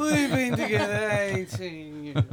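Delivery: tired voice. Retold or imitated. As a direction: mimic her tired delivery. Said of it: "You say that with such a tired voice".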